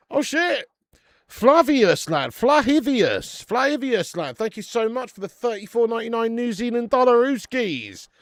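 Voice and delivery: loud delighted donation thank-you; excited shout. Real, not acted. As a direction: yell the thanks like a jackpot hit. Surprised by a donation.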